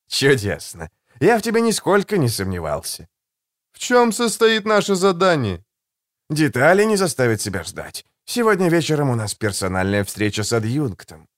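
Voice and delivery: calm, silky and a little mocking; suave assassin voice. Голос Жемчуга. (учтивый, вкрадчивый голос убийцы)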